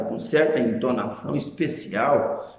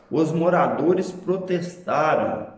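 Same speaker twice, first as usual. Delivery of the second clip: slow example; 2 semitones higher, slower than usual. Shown as a demonstration. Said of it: "Veja, por exemplo".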